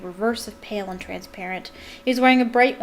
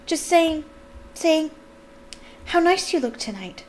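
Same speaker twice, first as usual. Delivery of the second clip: flustered cover-up; 8 semitones higher, 3 dB louder than usual. A narrator's reading. Hasty cover-up under glare.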